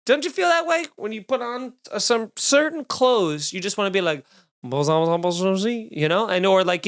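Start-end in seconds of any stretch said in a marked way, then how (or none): 4.6-5.7 mock French, badly faked; playful attempt at sounding French; fake French accent. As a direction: put on a half-hearted French accent. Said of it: "a much better fake French accent".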